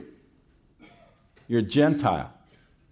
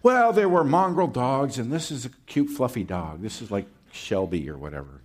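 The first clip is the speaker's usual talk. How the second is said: mocking commentators. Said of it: "some commentators try and soften this by saying".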